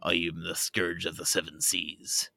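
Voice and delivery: loud, boastful pirate voice, slowing down; Blackbeard the pirate. Shown as a demonstration. Podcast guest imitating a pirate on request, loud pirate voice. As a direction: announce yourself as a fearsome pirate captain. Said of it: "Can you imitate a pirate?".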